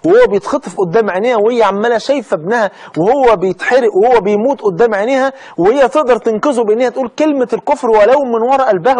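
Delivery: rising passion. Acted. Preacher building emotional peak.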